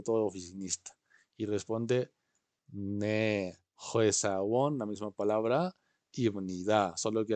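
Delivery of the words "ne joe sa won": slow model phrase. Shown as a demonstration. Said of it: "teacher models reply".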